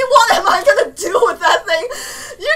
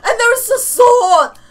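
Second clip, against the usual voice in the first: excited shout; 4 semitones higher, 7 dB louder, slower than usual. Real, not acted. Excited over new sword.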